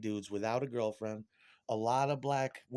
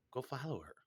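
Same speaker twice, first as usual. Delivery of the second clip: quieter inner voice; 6 dB quieter than usual. Retold or imitated. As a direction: Go follow her repeated much softer, falling. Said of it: "my inner voice kicking in saying".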